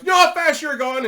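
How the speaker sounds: high, loud angry demand; pissed-off officer confronting the driver; angry cop. Retold or imitated. Red-faced cop at the car window, loud high angry demand.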